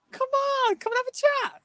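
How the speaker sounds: very high, squeaky coaxing; retold coaxing. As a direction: wheedle in a tiny high voice. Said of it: "I was like".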